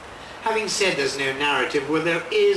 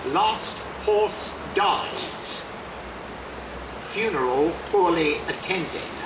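measured, deliberate poem reading with long pauses; unhurried poet's reading voice; poetry reading. Acted. Poet reads his poem aloud.

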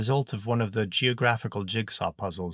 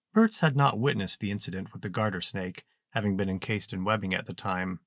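usual speaking voice

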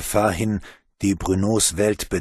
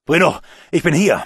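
calling out; 7 semitones higher, 7 dB louder than usual. Acted. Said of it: "meldete sich Alphonse".

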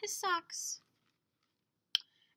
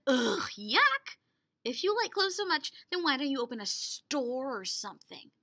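sarcastic; 3 dB louder than usual. Acted. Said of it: "Naked mole rats can be very sarcastic".

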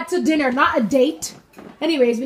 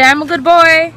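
prompting line; 4 semitones higher, 7 dB louder than usual. Shown as a demonstration.

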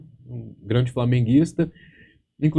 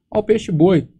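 put-on high, loud child's taunt; kid taunting; 8 semitones higher, 4 dB louder than usual. Beach kid jeering at the chubby narrator, high mocking call. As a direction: point and jeer like a brat on the beach.

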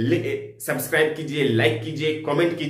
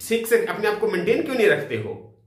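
disgust; 5 semitones higher than usual. Shown as a demonstration. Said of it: "यहाँ घृणा का भाव".

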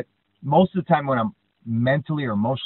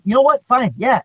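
much higher, louder wrestler acceptance; taking the challenge; 11 semitones higher, 10 dB louder than usual. Retold or imitated. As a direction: accept the fight with swagger. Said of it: "And he's like".

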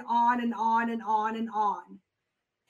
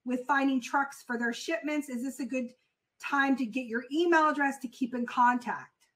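calm sales pitch. Shown as a demonstration. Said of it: "and so he says".

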